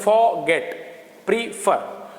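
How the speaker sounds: फॉरगेट and प्रीफर slowly split into two syllables. Shown as a demonstration. Teacher showing two-syllable words फॉरगेट and प्रीफर, split syllable by syllable. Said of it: "दो syllable के होते हैं".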